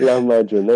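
Lahmacun said the Turkish way; native pronunciation. Shown as a demonstration. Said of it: "That's how you say it".

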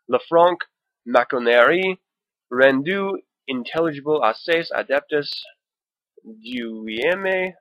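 reading the French title in a hammed-up French accent; put-on French accent. Shown as a demonstration. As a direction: overdo the French accent on every word, slowing at the end. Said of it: "attribute what they think that accent sounds like, like I just did".

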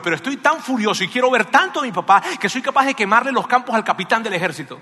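a desperate son losing his temper, voice climbing; a son voiced by the preacher, growing from upset to shouting anger; furious son. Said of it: "Aquí hay un hijo furioso".

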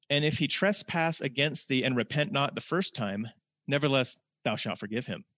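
measured, formal scripture reading. Acted. Preacher reading scripture to the congregation, solemn and measured. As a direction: read the verse with solemn weight.

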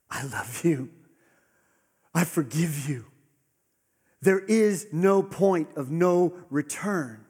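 rising from tender to loud, slow; building proclamation. Acted. Jesus speaking to each listener, building to a proclamation. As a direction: build it into a ringing promise.

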